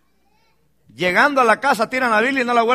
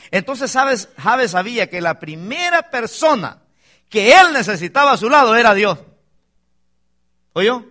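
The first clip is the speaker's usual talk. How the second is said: raised, emphatic pulpit voice; forceful preaching; 5 semitones higher, 7 dB louder than usual. Real, not acted. Preacher telling the church whom Jabes needed first, forceful preaching. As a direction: drive the point home loudly to the congregation.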